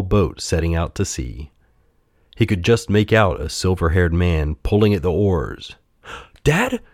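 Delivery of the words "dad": high puppet cry. A narrator's reading. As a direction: call out high to a far-off father. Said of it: "cried Pinocchio".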